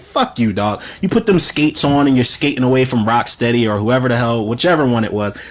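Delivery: ordinary talk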